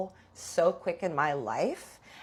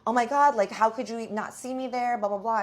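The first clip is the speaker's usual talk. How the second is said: higher-pitched outraged complaint; mock yelling; 5 semitones higher than usual. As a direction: imitate her telling someone off, trailing into blah-blah. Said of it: "yelling at Shane".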